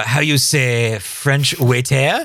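slow, mock French waiter; hammed-up French waiter accent; fake French accent. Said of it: "such a fake French accent".

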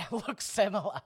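loud, emphatic declaration; ranting troll. Retold or imitated. Podcast host reads out an online troll's verdict on himself, mock-pompous troll. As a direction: proclaim it with heavy weight on the words. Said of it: "one particular troll on that that was like".

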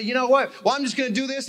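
high, worked-up outburst; all worked up. Retold or imitated. Preacher imitating people fighting alone, high and worked up. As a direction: blurt it in a heated high pitch. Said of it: "all worked up and say".

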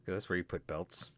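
a quiet unvoiced whisper. Real, not acted. Whispering a joke to his co-host. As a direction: breathe it out under the breath.

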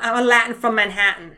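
put-on jokey Latin-tinged New York accent; playful Latin New York lilt; Latin Manhattan accent. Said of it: "when I say that, I sound".

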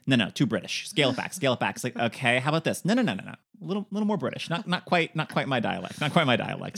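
a hint of a drill-sergeant dialect coach; lightly voiced director scolding the actor; mock stern director. Imagined director drilling Matthew Modine on his accent, lightly voiced. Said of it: "like J K Simmons and Whiplash".

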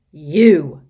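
sudden loud bark of rage; furious shout. A narrator's reading. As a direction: explode at the children. Villain confronts children.

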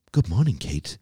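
a lightly voiced sycophantic robot; flattering device voice. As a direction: play a fawning smart assistant. Imagined flattering bedside tablet.

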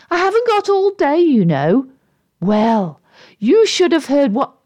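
lightly voiced grumpy figure telling off; testy unseen voice. Overheard familiar voice telling its tale.

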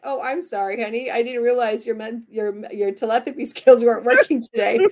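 lightly sarcastic sweet apology; a mock-sweet sorry with a laugh in it; teasing apology. Wife teasing her husband David about telepathy, playful sarcasm. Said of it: "I'll be like".

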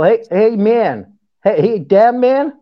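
lightly put-on American accent; attempted American accent. Shown as a demonstration. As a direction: try out an American "man". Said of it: "you gotta do the man".

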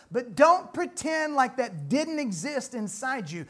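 normal talking voice

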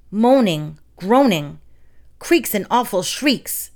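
breathy eerie whisper of the noises; frightened baker whispering the haunted noises; spooky whisper. Acted. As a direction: whisper it like a ghost story. Baker describing ghostly noises.

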